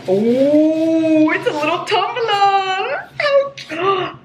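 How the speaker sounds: high, teary happy voice; on the verge of happy tears; opening a tumbler, high and teary; tearful delight. Real, not acted. Moved by tumbler gift.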